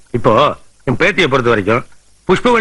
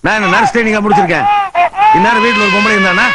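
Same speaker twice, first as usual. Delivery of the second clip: raised, fast, fed-up complaining; exasperated rant; 5 semitones higher than usual. Acted. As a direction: vent the frustration higher and quicker. Flustered rant over crying baby. (குழந்தை அழுகையால் எரிச்சலான புலம்பல்)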